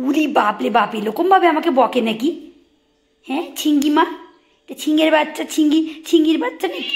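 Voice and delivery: high, loud teasing coo; mock-offended owner cooing at the pet. Real, not acted. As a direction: tease the pet with a high playful voice.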